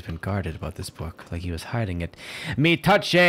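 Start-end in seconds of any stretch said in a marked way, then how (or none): 2.6-3.1 loud, high mock exclamation; mock-French outburst. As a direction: shout it in hammed-up French. Mock-French exclamation over found book.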